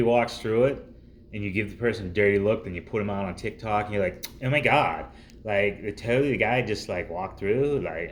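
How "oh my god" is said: put-on Valley Girl voice. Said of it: "that whole Valley Girl impression".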